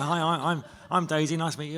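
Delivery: an eager, bouncy hello to a new co-star; bubbly Daisy greeting. Retold or imitated. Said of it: "And she was like".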